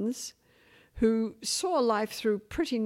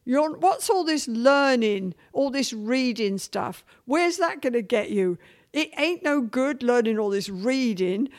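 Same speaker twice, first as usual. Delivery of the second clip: mother's Cockney voice; 3 semitones higher than usual. Retold or imitated. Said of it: "She told me, quote".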